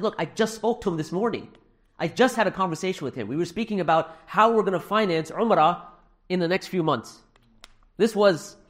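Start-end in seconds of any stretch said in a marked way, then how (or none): 0.0-7.2 mild disbelief. Retold or imitated. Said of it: "I couldn't process that immediately".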